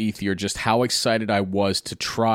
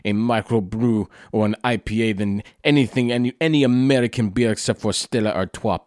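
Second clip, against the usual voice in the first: imitating the same friend in a light French accent; a hint of French accent, wry and dismissive; understated mock French accent, teasing American beer. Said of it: "He was like".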